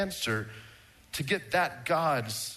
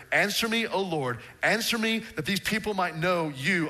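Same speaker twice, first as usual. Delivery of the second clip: fervent prayer, rising on the pleas; earnest prayer. Retold or imitated. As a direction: pray it with urgency. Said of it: "here's his prayer".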